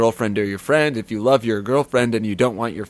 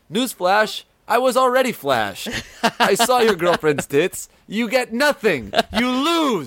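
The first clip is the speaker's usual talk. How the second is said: higher, gloating taunt; 8 semitones higher than usual. Acted. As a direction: rub the win in his face.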